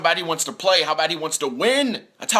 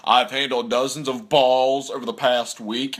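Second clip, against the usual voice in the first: imitating Belichick; 4 dB louder than usual. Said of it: "he's like".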